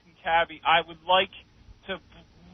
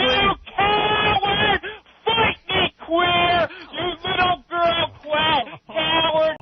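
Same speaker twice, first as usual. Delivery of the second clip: furious shout; 4 semitones higher, slower than usual. Real, not acted. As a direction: rage at the host. Caller screaming insults on air.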